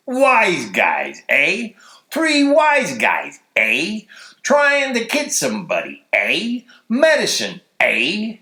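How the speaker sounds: drawn-out mocking jeer at the suspects; very sarcastic. Gendarme taunting the three men he pulled over, sarcastic. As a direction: sneer each eh like you don't believe a word. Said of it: "very sarcastic".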